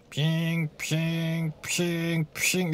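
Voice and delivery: low, soft "ping" effects; zing quietly, low in the voice; mimicked zinging sound. Shown as a demonstration. Player setting up robot parts, soft imitated zings.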